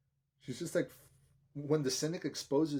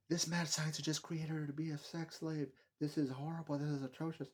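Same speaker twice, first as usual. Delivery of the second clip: higher-pitched imitation of appalled critics; mock outrage; 5 semitones higher than usual. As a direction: mimic people declaring themselves horrified. Mimics outraged critics of film.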